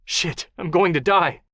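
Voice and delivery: slow frightened curse; despairing dread. Acted. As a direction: sure he will die. Captive realizing he'll die.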